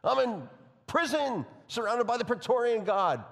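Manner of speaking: New York vowels creeping in as he speeds up; a little New York accent. Retold or imitated. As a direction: slip into a touch of New York while quoting Paul. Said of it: "That was a little New York there".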